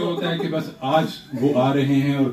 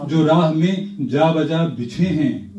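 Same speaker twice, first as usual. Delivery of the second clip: stately nazm recitation; 3 semitones higher than usual. Acted. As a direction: recite it with gravity. Poet recites his prayer nazm.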